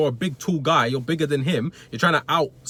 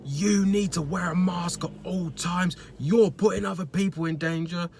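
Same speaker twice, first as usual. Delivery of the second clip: high, slow mock moaning customer; mock complaining customer; 4 semitones higher, slower than usual. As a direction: whine it like a self-righteous shopper. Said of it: "The guy's like".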